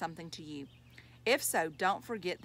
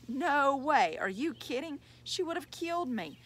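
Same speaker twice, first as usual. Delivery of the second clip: higher-pitched, startled denial; alarmed denial; 7 semitones higher, 4 dB louder than usual. A narrator's reading. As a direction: react as if the very idea is terrifying. Father startled at idea Mom knew.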